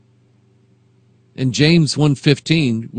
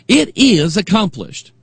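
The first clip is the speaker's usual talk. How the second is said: higher, drawn-out solemn proclamation; high priest's proclamation; 6 semitones higher, slower than usual. Acted. High priest to the nation of Israel, proclaiming. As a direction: proclaim it slowly, pitched up. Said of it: "proclaim to the nation".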